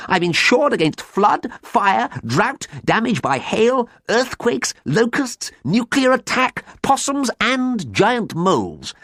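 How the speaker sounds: very high, hammed-up wailing; broken-hearted lament. A narrator's reading. Ruined farmer bemoans his custard-flooded farm, high sobbing wail. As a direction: pile up the woes in a high wail. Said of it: "he sobbed broken-heartedly".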